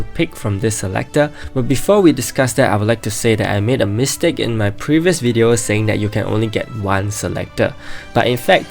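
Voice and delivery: hoarse, sore throat voice; talking through a sore throat. Real, not acted. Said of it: "Sorry if I sound weird because I have a sore throat".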